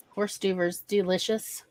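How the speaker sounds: hors d'oeuvres as "horse doovers", said low and soft; mangled French. Acted. Repeating the Homer Simpson line, soft, low mispronounced "horse doovers". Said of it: "does sound like the British version".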